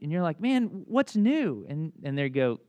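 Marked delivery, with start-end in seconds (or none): 0.4-1.7 high, drawn-out friendly question; eager catching up. Acted. Catching up with a long-unseen friend, eager. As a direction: stretch it out as an interested old pal.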